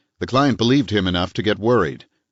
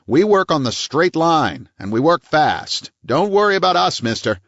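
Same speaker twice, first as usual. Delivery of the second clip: high, loud small-town cop; stern police chief; 6 semitones higher, 3 dB louder than usual. A narrator's reading. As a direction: threaten him, hard and proud. Weber's hard cop voice.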